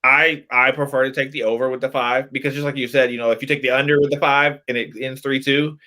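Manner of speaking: usual speaking voice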